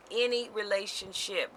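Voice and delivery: "Any" pitched high, then falling through "relationship"; stress on ANY. Real, not acted. Speaker underlines that no relationship is exempt, high stressed "Any". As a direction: hit "Any" high to single it out. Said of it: "I'm gonna stress the word any".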